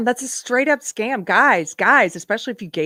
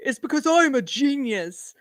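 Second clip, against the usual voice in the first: mock narcissist; 5 semitones higher than usual. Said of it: "there's that narcissism".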